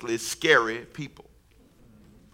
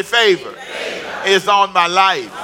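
1 shouted declaration; 2 semitones higher than usual. Shown as a demonstration. Preacher leading the congregation, shouted and slow. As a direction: call it out like you mean it. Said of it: "Come on, say".

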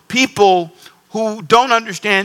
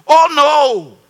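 high, louder mock-shocked woman's voice; a woman recoiling at the very idea, pitched up; shocked visitor; 9 semitones higher, 5 dB louder, slower than usual. Pastor imitating his guest, mock shocked and high. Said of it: "She says".

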